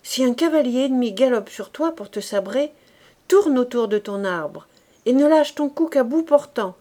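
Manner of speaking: a terse veteran giving orders; gruff corporal. Acted. Corporal to raw recruit Fabrice, gruff orders. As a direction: hurry the green recruit.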